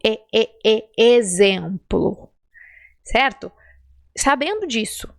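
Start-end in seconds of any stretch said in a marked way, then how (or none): 0.0-2.3 slow, drawn-out "exemplo" with closed ê. Shown as a demonstration. Teacher drilling the closed E slowly. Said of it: "que eu chamo de fechado".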